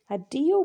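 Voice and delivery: Adio said the Greek way; Greek word. Shown as a demonstration. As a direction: model Adio.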